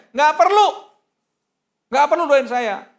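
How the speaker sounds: high, loud refusal; imitating an outraged shout; retold angry yelling. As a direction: yell it like a furious young man rejecting prayer. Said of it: "Wah, mulai tertirik dia".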